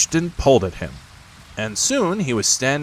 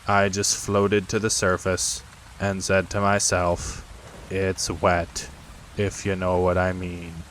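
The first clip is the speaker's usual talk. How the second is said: lightly voiced gloomy donkey. Eeyore voiced in story.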